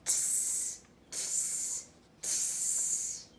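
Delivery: soft unvoiced tsk tsk tsk; cheeky monkeys tsking back. Monkeys mocking the peddler, soft cheeky tsking. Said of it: "and said".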